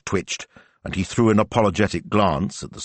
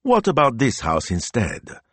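cheery; 6 semitones higher than usual. Acted. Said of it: "asked Gemma cheerily".

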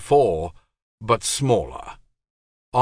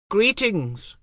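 high, otherworldly greeting; a distant divine voice; goddess voice; 13 semitones higher than usual. Acted. A voice came in the void.

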